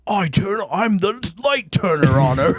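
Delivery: mock action hero. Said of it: "He's like".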